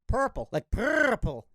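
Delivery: "purple" with a rolled r. Shown as a demonstration. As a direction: purr the r in "purple". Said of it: "You roll your R pretty good".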